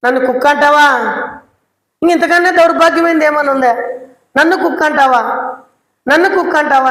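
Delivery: mildly acted offended woman asking if she is called a dog; offended outburst. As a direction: throw back the insult in wounded indignation. Woman imagined taking offence.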